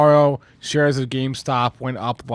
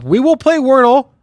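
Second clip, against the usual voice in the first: higher and louder, pumped up; excited; 10 semitones higher, 9 dB louder than usual. Real, not acted. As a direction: announce it with a burst of hype. Hyping the show agenda.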